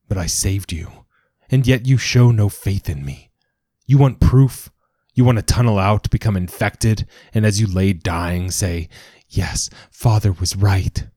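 a zealot father losing his temper; angry father. Acted. Father rants at Progeny.

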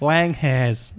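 Langers said as two words, "Lang has"; mispronounced Langers. Retold or imitated. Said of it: "It's hilarious how he says that".

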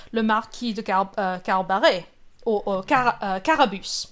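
French-accented pronunciation of the title. Shown as a demonstration. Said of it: "I say it in a French accent".

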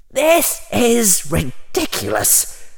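high, slow exasperated inner critic; Harry's internal consistency checker objects. Acted. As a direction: scold yourself. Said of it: "a part of Harry ... consistency checker".

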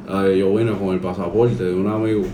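Cuban Spanish accent. Shown as a demonstration. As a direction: speak like a Cuban.

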